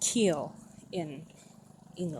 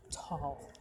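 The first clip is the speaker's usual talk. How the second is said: tall with an American L; American accent; 4 semitones lower, 8 dB quieter than usual. Shown as a demonstration. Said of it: "with a American accent".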